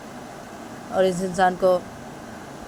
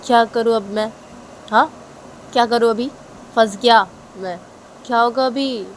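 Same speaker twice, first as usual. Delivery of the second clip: higher and louder, frantic worry; a trapped man asking what now; mild voiced panic; panicked man; 4 semitones higher, 6 dB louder than usual.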